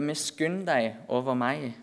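slow, restrained imitation of a plea; retold cry for mercy. Preacher retells the blind man calling for mercy, a restrained cry. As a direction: draw out the plea without shouting. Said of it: "han roper".

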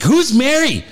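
high-pitched mimicked kid's question; squeaky-high child impression; upset young son. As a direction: imitate a small boy's alarmed cry. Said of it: "so Jack's like".

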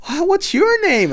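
high, slow, loud character voice; put-on princess asking a child; Mulan. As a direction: coo it slowly, as if to a small child. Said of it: "She goes".

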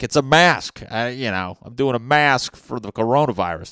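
high, loud protest; insisting loudly it's just a mask; defensive shout. Retold or imitated. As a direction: yell it like you're being falsely accused. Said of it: "I'm like".

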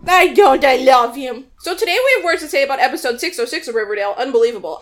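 talking with a mouth full; words round a bite of Pop-Tart. Real, not acted. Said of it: "I'm sorry, I'm eating a Pop-Tart".

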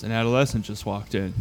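flat, matter-of-fact; dry. Retold or imitated. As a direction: state it bone dry. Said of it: "he said it so dry".

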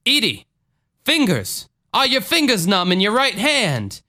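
high-pitched preacher call; Jim Jones. Acted. Faith healer questions a woman in the congregation, preacher impression. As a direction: put on a faith healer's swooping voice. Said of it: "Jim Jones is quoted here as saying".

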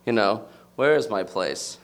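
usual speaking voice

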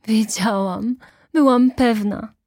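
high, loud triumphant cry through pain; ecstatic, pained exclamation. A narrator's reading. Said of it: "straszliwy krzyk uniesienia".

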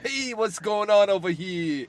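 drawn-out mock film tough guy; imitating Sal's acting. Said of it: "let's look at Sal's acting talent".

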